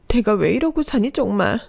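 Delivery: high, cracking lament; exasperated despair. Acted. Worn-out wife lamenting her life to husband, high and despairing. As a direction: wail at your own fate.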